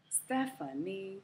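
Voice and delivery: Stephanie said slowly with a schwa in the middle; slow model word. Shown as a demonstration. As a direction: say Stephanie slowly, STEH-fuh-nee. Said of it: "The middle syllable is a, the schwa".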